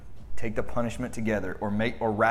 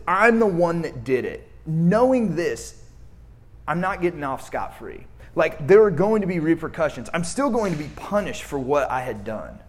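raised, urgent confession; earnest confession; 4 semitones higher, 4 dB louder than usual. Retold or imitated. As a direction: blurt it out, owning it. Peter confessing, retold.

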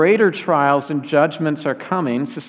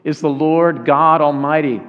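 measured, ringing proclamation; angels crying out; 4 dB louder than usual. Acted. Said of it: "and they cry out".

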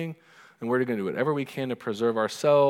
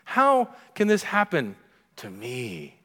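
mock whine; slower than usual. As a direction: moan it like nothing bad should touch you. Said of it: "something in all of us".

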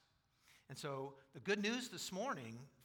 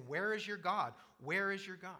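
louder, higher jeering taunt; mocking taunt; 5 semitones higher, 7 dB louder than usual. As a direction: jeer at him, a bit higher and louder. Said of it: "his adversaries are mocking him".

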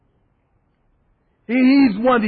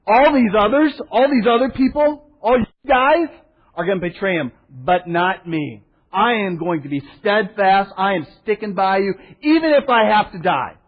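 boastful Peter; 2 semitones higher, 3 dB louder than usual. Retold or imitated. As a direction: swear loyalty with bravado. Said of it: "Simon Peter said".

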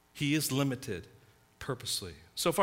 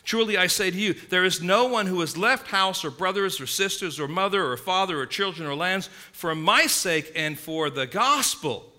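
scripture reading; 2 semitones lower than usual. Acted. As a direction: read the verse solemnly, fading. Reads scripture aloud.

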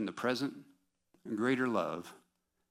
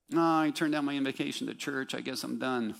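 sarcastic quote; 4 semitones higher, 4 dB louder than usual. Retold or imitated. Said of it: "I'm being sarcastic".

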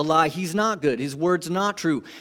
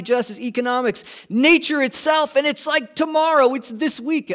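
excited anticipation, building higher and louder; mounting crowd fervor; 5 semitones higher, 3 dB louder than usual. Acted. Preacher voices the crowd following Jesus into Jerusalem, fervor building. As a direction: start eager, climb to a loud, high-pitched frenzy. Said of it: "the fervor that might be with this crowd".

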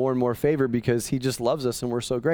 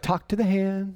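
sassy dismissal; 4 semitones higher than usual. Acted. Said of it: "That's an old nineties thing".

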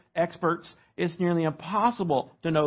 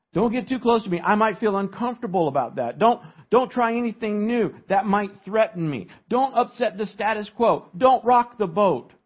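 higher, acted protest against change; pitched-up, insistent mock objection; anxious resistance; 5 semitones higher, 3 dB louder than usual. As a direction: voice someone fending off anything new. Voicing people afraid of anything new.

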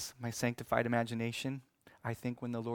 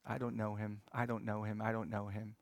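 hushed denial; 2 semitones lower, 6 dB quieter than usual. Acted. Peter's fearful denial.

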